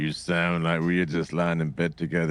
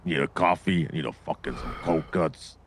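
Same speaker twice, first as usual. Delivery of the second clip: Italian bit. Pretend. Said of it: "you and this Italian bit".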